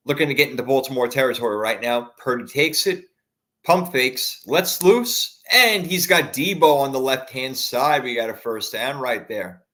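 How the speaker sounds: live football commentary; play-by-play. Acted. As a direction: call the action like a broadcaster. Fan calls the game live.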